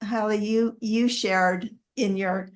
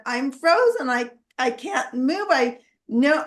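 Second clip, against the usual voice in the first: higher pitched urgent call to another room; 3 semitones higher than usual. Retold or imitated. Calling out to Robert after the wine bottle shattered, urgent and high. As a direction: call for help, frozen in place. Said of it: "I called out to Robert".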